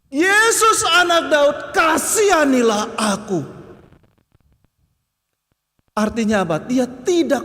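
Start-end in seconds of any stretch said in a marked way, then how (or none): 0.1-3.5 crying out. Acted. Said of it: "dia semakin berseru".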